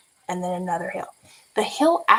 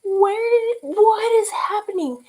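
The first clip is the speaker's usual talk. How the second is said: much higher, louder bafflement; incredulous; 12 semitones higher, 4 dB louder, slower than usual. Retold or imitated. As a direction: ask in disbelief. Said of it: "And I'm like".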